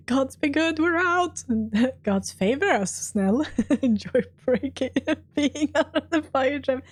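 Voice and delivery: laughing through the words, starting high; relieved laughter. Real, not acted. Player celebrating escape from fire trap, laughing. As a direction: giggle with relief while talking.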